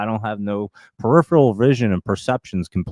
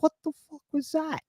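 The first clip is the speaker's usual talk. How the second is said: retold shock, pitched way up; a sudden jolt of mock surprise, high; startled outburst; 7 dB quieter than usual. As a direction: blurt it out, high and suddenly alarmed. Retelling finger caught in chain.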